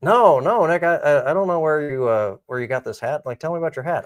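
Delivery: retold reply to a castmate; Charlie Sheen-like. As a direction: sound a little like Charlie Sheen, pleading. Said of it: "I sound like Charlie Sheen".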